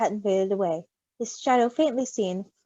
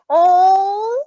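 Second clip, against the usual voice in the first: much higher, loud, laughing; laughing shout; 11 dB louder, much slower than usual. Real, not acted. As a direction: cry out in delighted alarm. Laughing shout at baby spilling.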